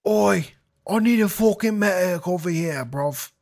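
loud British-style call for a medic; man down shout. Pretend. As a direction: yell it like a soldier down. Calling for a medic, British slang.

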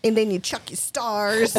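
slow Southern drawl through laughter; Southern accent. Retold or imitated. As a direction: chuck it out like a country ninja teacher. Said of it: "super heavy Southern accent".

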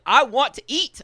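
high, loud frustrated demand; snapping at a friend over dinner time, loud; angry demand. Retold or imitated. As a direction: insist like you're starving. Retold blowing up.

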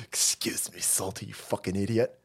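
mock yell. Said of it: "I need to yell at somebody".

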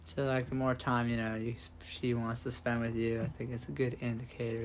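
subdued, understated podcast voice; a little downbeat and measured, as if on air; depressed-sounding. Real, not acted. Podcaster answering friends' dating question, mildly depressed-sounding. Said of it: "Why do you sound so depressed".

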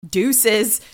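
sassy sign-off. Retold or imitated. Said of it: "she's like".

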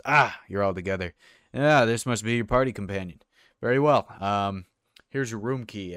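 lightly voiced barkeep, lifted and hearty; a hint of a hearty innkeeper; welcoming barkeep. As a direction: greet the party as a genial innkeeper. Barkeep greets the party.

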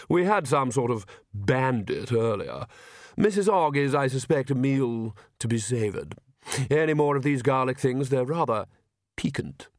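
lightly voiced urbane vampire, polite and unhurried; a hint of silky aristocrat; suave vampire. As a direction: play a courteous vampire host, savouring the words. Narrator voices Vlad, suave vampire.

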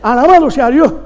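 imitating an old-time evangelist; playful mimicry of a preacher's exclamations; Yiye Ávila. Preacher imitating a beloved evangelist at the microphone, playful impression. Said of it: "me encantaba cuando se amarraba el micrófono".

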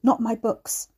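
put-on wheezy, croaking old voice; wheezing croak. A narrator's reading. Bedridden old man wheezes to protect his books. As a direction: plead for the books through a wheeze. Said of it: "Harry Bishop croaked, wheezing".

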